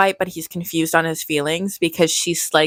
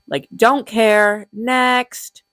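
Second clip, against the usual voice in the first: dismissive; 4 semitones higher, much slower than usual. Real, not acted. Dismissive aside.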